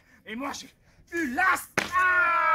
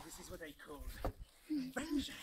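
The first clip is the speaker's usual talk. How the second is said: trailer voice; 7 semitones lower, 19 dB quieter, faster than usual. Acted. Movie-trailer style line.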